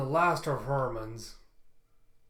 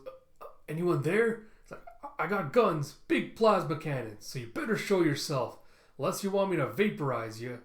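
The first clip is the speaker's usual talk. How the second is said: nervous bluster; 2 semitones higher, 3 dB louder than usual. Acted. Frightened bluff at unseen thing.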